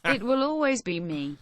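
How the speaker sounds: synthetic text-to-speech; flat computer reading; robot voice. Acted. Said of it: "that robot voice".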